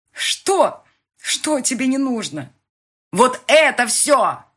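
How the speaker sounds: high, loud quarrel yelling; shouting. A narrator's reading. Lovers shout at each other in a fight, loud yelling. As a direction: hurl the words in the quarrel.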